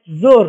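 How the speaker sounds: زور said slowly but with a short, closed o, not a stretched oo; short unstretched vowel. Shown as a demonstration. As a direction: give زور a short o sound. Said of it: "واو کو ہم واضح کر کے اور کھل کر کے اس کو نہیں پڑھتے".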